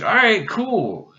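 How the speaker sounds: put-on girly voice. Girl voiced in retold scene.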